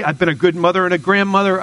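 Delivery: lightly voiced indignant grandmother; a mild, retold plea to God; pleading grandmother. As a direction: make the case to heaven, lightly acted. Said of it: "and she screams".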